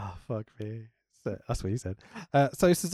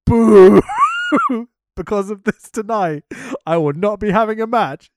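Cena promo; 3 semitones higher, 9 dB louder than usual. Retold or imitated. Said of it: "the bit where Cena goes".

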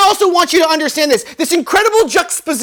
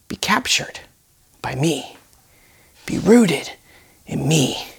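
soft, slow whispered words of comfort; 4 semitones lower, 4 dB quieter than usual. Shown as a demonstration. Preacher voicing God's whisper to the congregation, hushed and slow. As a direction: whisper it like God into an ear. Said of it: "What might he be saying?".

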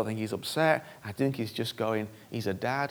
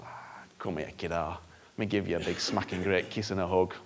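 soft, lower, hushed and fond; tender welcome; 4 semitones lower, 4 dB quieter than usual. Retold or imitated. God welcoming his exposed child, soft and tender. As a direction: whisper it like a loving dad. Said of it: "he just goes".

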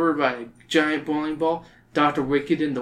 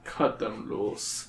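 Doctor Wicked crying out; 5 semitones lower, 10 dB quieter, much slower than usual. A narrator's reading. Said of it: "Doctor Wicked cries from the platform".

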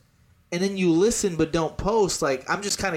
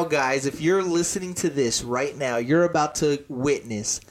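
hype announcer; 3 semitones lower than usual. Acted. Hyping the episode to listeners.

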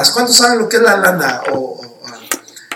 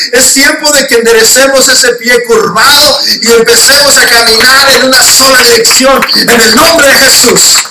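loud, rising preacher call; rally the church to action; preaching at full force; 4 semitones higher, 5 dB louder than usual. Acted. Preacher urging congregation to get serious.

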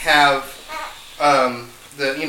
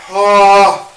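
pained cry; 2 semitones higher, 6 dB louder, much slower than usual. Real, not acted. Burning mouth, loud and far.

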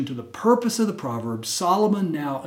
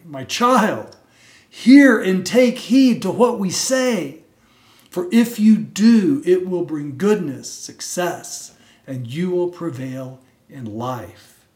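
earnest, slow, louder parental plea; emphatic parents; 5 dB louder than usual. Acted. Parents urging their child to heed wisdom, slow and emphatic. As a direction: urge the child like loving parents. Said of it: "the message here is emphatic".

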